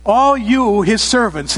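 call to worship. Acted. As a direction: summon the whole congregation. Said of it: "It's a call to worship".

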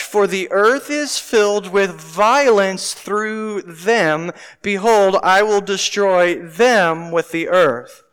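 slow, weighty Bible reading; scripture reading. Acted. Preacher reading Genesis aloud to the church, slow and solemn. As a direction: read it slowly to the congregation.

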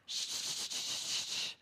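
urgent whispered shush. Retold or imitated. Mom hushing her noisy kids at the bus stop, a whispered shush. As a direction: hush the kids in a hiss of breath.

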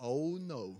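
soft, sinking aside; quiet dismay. Retold or imitated. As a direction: let it drop softly as the dread lands. Realizing he must preach unprepared.

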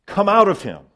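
stern command. A narrator's reading. Jesus orders the evil spirit out of a man, sternly. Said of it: "said Jesus sternly".

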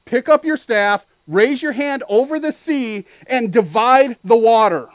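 preaching God's command to Moses; emphatic command. Acted. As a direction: proclaim each word.

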